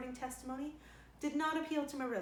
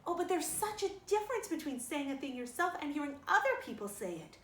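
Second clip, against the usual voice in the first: wailing; 4 semitones higher than usual. Acted. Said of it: "wailed Anne".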